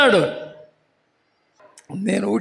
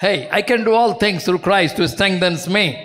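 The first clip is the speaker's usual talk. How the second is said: casual recital; much slower than usual. Shown as a demonstration. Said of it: "ఊరికే మాట్లాడుకోవాలి".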